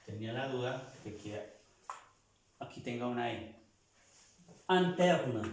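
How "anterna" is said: Anterna with nasal an sound, not in; French in as a. Shown as a demonstration. Teacher models French in as a. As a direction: start Anterna with an open a. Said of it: "No se pronuncia in, sino a".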